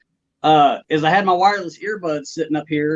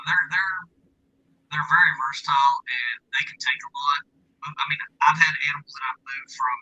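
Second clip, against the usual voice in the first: distant, tinny speakerphone audio; 2 semitones lower, 5 dB quieter than usual. Real, not acted. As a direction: sounds four miles away through a tin can. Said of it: "It does sound like speakerphone".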